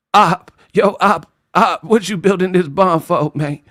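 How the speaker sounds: light Terrence Howard voice calling Op; a touch of Terrence Howard, half laughing; Terrence Howard impression. Terrence Howard teasing Oppenheimer, lightly done. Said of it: "Terrence Howard movie".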